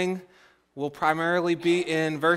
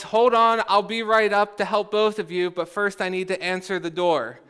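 raised calling voice, easing off; mock yell; 3 semitones higher, 3 dB louder than usual. Youngest sister calling to both sisters, mock yell. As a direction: start high and loud, then settle. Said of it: "And she yells".

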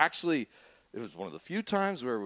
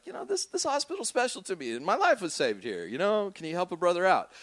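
mock pleading; 7 semitones higher than usual. Pleading voice in imagined letter.

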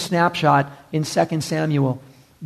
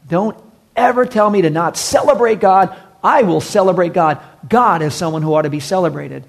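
louder, insistent and firm; defiant declaration; 2 semitones higher, 4 dB louder than usual. Retold or imitated. David answering his wife Michal, louder and defiant. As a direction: refuse to be silenced.

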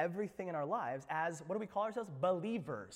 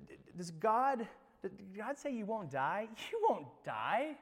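mocking tempter; 4 semitones higher, slower than usual. Satan voiced tempting Eve.

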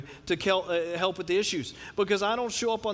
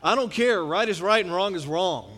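louder, firm mock defiance; defiant retort; 6 dB louder than usual. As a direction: plant your feet and insist. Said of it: "I'm like".

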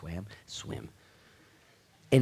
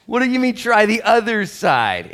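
much higher, slow mocking dude voice with a laugh; sarcastic fisherman; 13 semitones higher, 16 dB louder than usual. Fishermen mocking the advice from the beach in a sarcastic dude voice. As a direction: roll your eyes at the stranger. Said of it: "You know, like".

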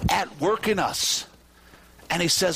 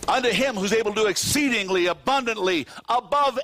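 preaching shout; 3 semitones higher than usual. Real, not acted. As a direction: proclaim the verse full voice. Preacher reads verse at climax.

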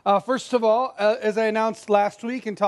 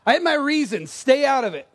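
defensive; 5 semitones higher, 3 dB louder than usual. Pretend. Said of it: "Are you defensive?".

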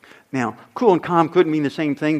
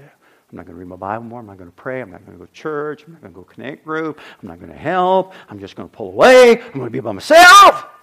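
sulky refusal building to shout; 6 semitones lower, 11 dB louder than usual. Retold or imitated. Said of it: "you start doing things God wouldn't want".

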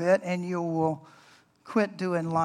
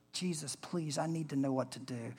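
soft, low pleading to God; hushed pleading prayer; 3 semitones lower, 11 dB quieter than usual. Retold or imitated. Preacher retelling his quiet prayer at the stakes. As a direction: pray quietly, almost under your breath. Retold desperate prayer in the swamp.

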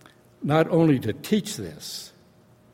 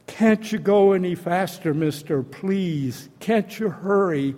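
retold begging, lifted higher; urgent pleading; 5 semitones higher than usual. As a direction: hurry him on, desperate, as retold. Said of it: "pleading with him".

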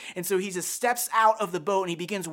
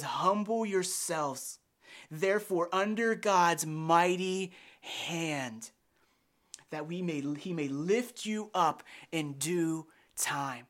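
slow scripture reading; slower than usual. Shown as a demonstration. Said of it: "Did you catch it in what we read".

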